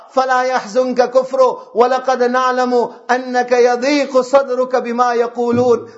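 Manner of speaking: fast, even chain of Arabic verses; Quran recitation. Acted. Preacher citing verse upon verse to the congregation, Quran recitation. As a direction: recite verse after verse without a break.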